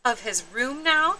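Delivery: put-on high, hopeful child voice; lightly voiced little girl; little sister asking. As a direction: ask mom sweetly. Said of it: "asked Jujubee".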